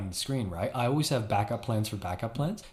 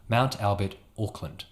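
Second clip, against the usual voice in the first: Kiwi accent on place names; New Zealand accent; 2 semitones lower than usual. Shown as a demonstration. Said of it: "triggers me into that New Zealand accent".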